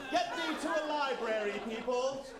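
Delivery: high, loud theatrical exhortation; exasperated mock-lofty command; mock scolding. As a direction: scold the crowd in grand, hammed-up fashion.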